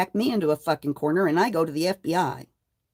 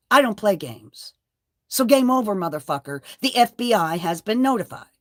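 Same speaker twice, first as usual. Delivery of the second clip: defiant anger; 4 semitones higher, 4 dB louder than usual. Real, not acted. Defying her harasser, loud and angry. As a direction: warn him with rising force.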